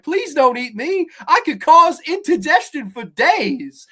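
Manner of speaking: high, loud pleading cartoon fruit; talking food. Fruit begging a hungry woman not to eat it, high cartoon plea. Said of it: "they all have these fun accents".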